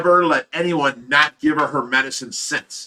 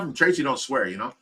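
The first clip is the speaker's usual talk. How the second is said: ordinary talk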